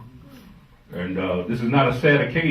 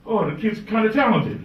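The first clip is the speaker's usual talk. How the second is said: imitating Daddy Ray; 11 semitones higher than usual. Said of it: "Daddy Ray be like".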